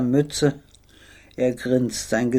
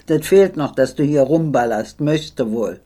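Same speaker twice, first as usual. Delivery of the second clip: angry shout. Retold or imitated. Veteran yelling at the jumpy boy, angry. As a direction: snap at the boy for nearly shooting. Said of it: "brüllt".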